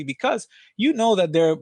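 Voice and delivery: usual speaking voice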